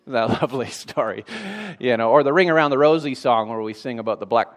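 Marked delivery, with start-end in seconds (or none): 0.0-1.2 low, soft, dry mock praise; deadpan sarcasm. Real, not acted. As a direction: drop it quietly, with dry irony. Sarcastic praise of grim nursery story.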